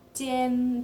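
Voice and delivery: "jian" on a level first tone. Shown as a demonstration. Teacher showing learners Mandarin tones, "jian" held level. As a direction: hold "jian" long and even in pitch. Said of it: "itu nada pertama".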